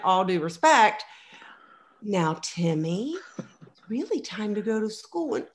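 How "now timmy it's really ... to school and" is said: gentle parenting voice. Pretend. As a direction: coax the child calmly. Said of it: "reading Janet Lansbury".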